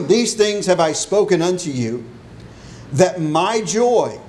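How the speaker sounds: solemn Bible reading; scripture reading. Acted. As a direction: linger on joy as you read. Reads scripture aloud before sermon.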